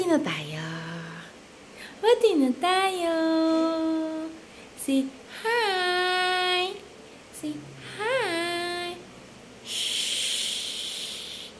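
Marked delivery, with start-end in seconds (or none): 2.0-8.9 Pati na tayo said higher with a lift on Pati; coaxing, pitched up. Real, not acted. Parent coaxing the baby to make peace, higher coaxing voice. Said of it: "repeated coaxing". 9.7-11.5 soft unvoiced shush. Real, not acted. Parent hushing the fussing baby, soft shush.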